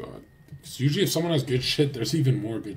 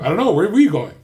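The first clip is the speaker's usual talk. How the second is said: imitating Fresh; 6 semitones higher, 8 dB louder, faster than usual. Imitating Fresh's clueless reply.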